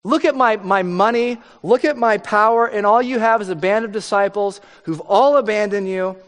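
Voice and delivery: mock Herod showing off his wealth and power; boastful Herod. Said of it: "You can see Herod going".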